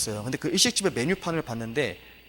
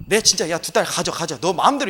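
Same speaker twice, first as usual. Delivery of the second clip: mock careless Lot; 6 dB louder than usual. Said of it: "이 말한 지금 의미는 뭐냐면".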